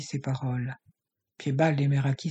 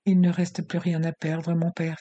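bitter. Acted. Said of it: "fit amèrement la jeune fille".

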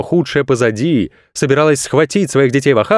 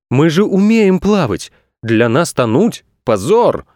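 indignant surprise; 4 semitones higher than usual. Acted. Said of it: "удивлялись пловцы".

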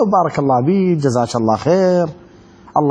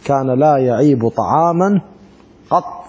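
slow hadith recital; 3 semitones lower, slower than usual. Shown as a demonstration. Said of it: "repeats hadith".

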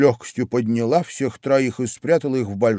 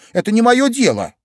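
higher, louder cheeky answer; bold retort; 10 semitones higher, 6 dB louder than usual. A narrator's reading. Alice answers the queen back, surprised at her boldness, defiant. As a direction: answer back boldly in a raised voice. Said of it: "сама удивляясь своей смелости".

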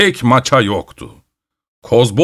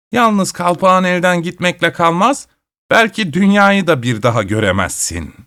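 higher, strange witch voice with a mild bark; 5 semitones higher than usual. A narrator's reading. The witch warns grandfather of the stakes, a mildly barked threat. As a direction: threaten like a cranky old hag. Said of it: "bir kez daha havladı".

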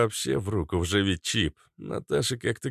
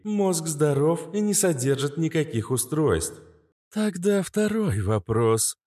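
higher, even machine report; calm AI voice; 8 semitones higher than usual. Acted. AI reports brain scan to Kobra, machine-like. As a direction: report scan results like a computer. AI character voice.

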